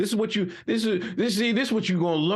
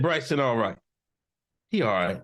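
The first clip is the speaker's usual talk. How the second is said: Uncle Hotep voice; 9 semitones lower than usual. Retold or imitated. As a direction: drop deep and nod it through like the wise uncle. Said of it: "Uncle Hotep has, from day one, said".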